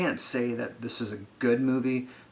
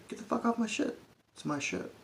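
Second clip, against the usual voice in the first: mock grumpy captain, pitched up; grumpy Han; 10 semitones higher, 9 dB quieter than usual. Han telling the kids to leave, mock grumpy. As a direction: shoo the kids off his ship, half-hammed. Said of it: "the first thing that Han says is".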